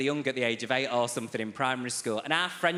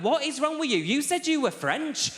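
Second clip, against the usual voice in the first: very high, strained outburst; exasperated professor; 12 semitones higher than usual. Retold or imitated. Professor losing it with the student, very high and strained. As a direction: explode in disbelief.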